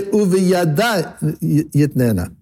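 slow, stretched "Uveyada", falling "yitnena"; emphasis on uveyada. Shown as a demonstration. Teacher quoting the would-be verse, stress on "Uveyada". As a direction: lean on "Uveyada" and draw it out. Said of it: "it would say".

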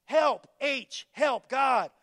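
loud, pleading call to God; cry for help. Acted. Preacher to congregation, a loud cry for help.

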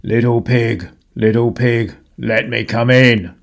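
a lightly gruff wolf calling at the door. A narrator's reading. Wolf calls to the little pig at his door, coaxing. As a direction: call sweetly through the door as the wolf. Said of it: "he called".

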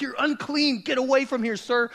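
hammed-up angry order to leave; mock angry nurse. Nurse scolding the dad away from the baby, mock angry. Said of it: "she is so angry at me".

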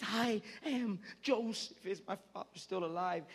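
slow, halting, anguished reveal; pained passion. Acted. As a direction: force each word out through acted pain. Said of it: "with passion and with so much pain".

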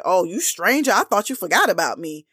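mock-offended dig with swooping pitch; passive aggressive. Woman texting a man who went silent for days, passive aggressive. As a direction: needle him lightly, passive-aggressively. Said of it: "Passive aggressive".

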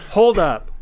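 a sudden indignant yelp, half-joking; indignant hold up. Retold or imitated. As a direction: throw up your hands in disbelief. Indignant at party's disapproval.

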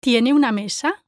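"Tiene" emphasized, "mesa" rising as a question; stress on TIENE. Shown as a demonstration. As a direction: lean on the verb "Tiene". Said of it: "should have stressed is the verb tiene".

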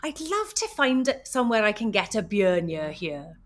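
lilting Welsh Valleys model line; a Welsh Valleys line for learners; Welsh Valleys accent. Shown as a demonstration. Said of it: "So you're gonna try saying".

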